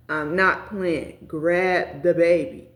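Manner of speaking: slow, deliberate retold order; impatient partner. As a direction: imitate an impatient partner, each word spaced out.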